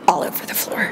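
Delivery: soft unvoiced whisper; whispered aside. Real, not acted. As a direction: lean in and whisper it.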